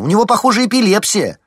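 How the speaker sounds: high, loud call for help; alarmed loud cry; urgent shout. A narrator's reading. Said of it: "воскликнула Лариса".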